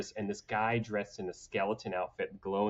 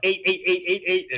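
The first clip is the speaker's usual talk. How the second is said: gleeful calling; 8 semitones higher, 7 dB louder than usual. Retold or imitated. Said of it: "I'm just like".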